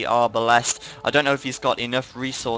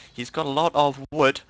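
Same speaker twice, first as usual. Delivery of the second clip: yawning; 3 semitones higher than usual. Real, not acted. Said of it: "just a bit of a yawn there".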